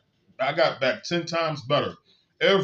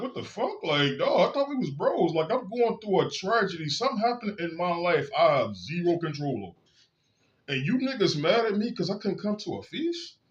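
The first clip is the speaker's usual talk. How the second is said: incredulous outburst; 2 semitones higher than usual. Retold or imitated. Retold outrage at cult brothers.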